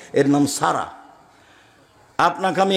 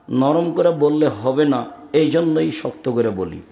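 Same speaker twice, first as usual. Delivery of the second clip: firm reply; 2 semitones lower, slower than usual. Retold or imitated. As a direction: answer the shouter slowly and steadily. His firm reply to complainer.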